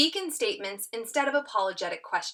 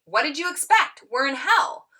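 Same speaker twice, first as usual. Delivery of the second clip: acted exasperated reply; 6 semitones higher, 6 dB louder than usual.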